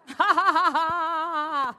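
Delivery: long rapid run of laughter; demonstrative laugh. Shown as a demonstration. Preacher showing how to laugh at yourself, demonstrative laugh.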